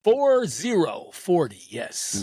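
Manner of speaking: slow, low radio DJ drawl; smooth FM radio host; late night DJ voice. Pretend. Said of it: "I'm gonna speak in a low voice right now".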